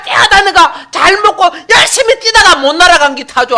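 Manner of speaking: loud, high pulpit oratory; impassioned high-pitched sermon climax; full-force preaching. Real, not acted. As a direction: ring it out to the whole congregation.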